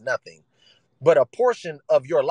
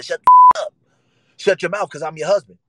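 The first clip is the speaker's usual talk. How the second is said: sudden furious yell, much higher and louder; mock husband screaming at his wife to shut up; angry husband shout; 3 semitones higher, 8 dB louder than usual. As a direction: bark it like a bullying husband. Imitating a husband yelling at wife.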